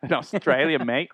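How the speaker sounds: lightly hammed Aussie "mate" talk; mock Australian accent. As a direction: put on a playful Australian accent. Playing at being Australian.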